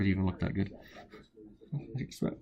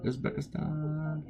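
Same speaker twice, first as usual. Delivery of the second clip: slow, high, stretched Uzbekistan; drawn-out sing-song; 8 semitones higher, 6 dB quieter, much slower than usual. Real, not acted. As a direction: drawl out Uzbekistan playfully, pitched up. Playfully repeating country names.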